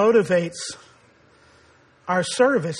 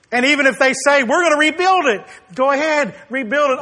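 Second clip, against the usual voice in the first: defiant mockery; 4 semitones higher, 4 dB louder than usual. God mocking Edom's boast.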